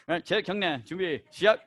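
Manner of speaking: quick Korean class commands with a laugh; commands said fast. Shown as a demonstration. Instructor showing students to call commands quickly. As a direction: rattle off chariot, 경례, 준비, 시작. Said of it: "speak it fast".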